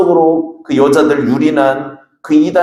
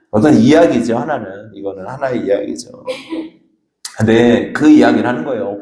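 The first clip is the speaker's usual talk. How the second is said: usual speaking voice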